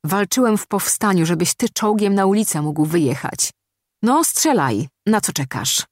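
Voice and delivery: podniesiony, wyżej w gniewie; desperacki krzyk. Acted. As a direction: wykrzycz żal do żołnierza. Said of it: "krzyknął Michał". (gniewny krzyk, umiarkowany)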